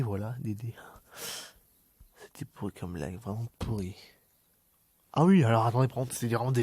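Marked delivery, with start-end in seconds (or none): 0.0-0.7 hushed punchline whisper. Real, not acted. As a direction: whisper the joke. Whispered punchline after joke.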